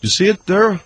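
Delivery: lightly voiced Canadian hockey player; halting, dim-witted hockey player reading news; Moose McGoran. Hockey player fumbles through celebrity news, lightly voiced Canadian. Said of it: "trying to do a Canadian voice".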